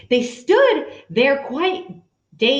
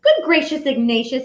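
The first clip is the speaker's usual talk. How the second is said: delighted mother's exclamation; a mother's bright exclamation; exclaiming mother; faster than usual. Acted. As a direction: gasp it out with joy. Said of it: "his mother exclaimed".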